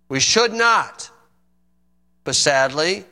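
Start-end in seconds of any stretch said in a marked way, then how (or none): 0.1-1.1 "We should not" pitched high with "should" punched; emphatic repeat. Real, not acted. Preacher driving the point home with a high emphatic "should".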